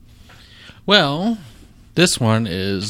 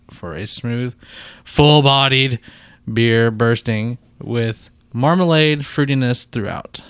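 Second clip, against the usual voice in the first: ridiculous label reading. Shown as a demonstration. Host reads beer label's bold gold words, ridiculously emphasized. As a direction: stretch the bolded words ridiculously. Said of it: "I read those words ridiculously".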